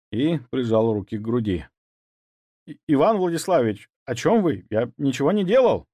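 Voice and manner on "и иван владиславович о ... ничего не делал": stuttering, higher frightened babble; stammering. Acted. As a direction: plead innocence in a stammer. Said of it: "пролепетал он". (испуганно лепеча)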